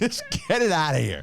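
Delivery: high, pleading dismissal; mock exasperation. Store worker wanting the dead fish gone, mock-exasperated plea. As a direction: play a fed-up clerk waving it away. Improvised fish-return riff as staff.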